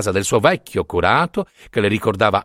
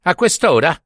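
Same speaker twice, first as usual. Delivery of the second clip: dismayed; 6 semitones higher than usual. A narrator's reading. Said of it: "guardando costernato la sorella".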